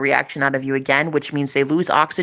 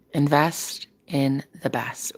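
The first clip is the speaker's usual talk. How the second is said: slow mantra; 2 semitones lower, 5 dB quieter, slower than usual. Retold or imitated. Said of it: "I gotta get that on a t-shirt".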